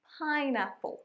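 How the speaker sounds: পাইনঅ্যাপল with a long, stressed opening PAI; stress on first syllable. Shown as a demonstration. Teacher practising with learners, first syllable of পাইনঅ্যাপল stressed. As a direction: lean on the PAI at the start of পাইনঅ্যাপল. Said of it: "শুরুর ফাইয়ে জোর দেব".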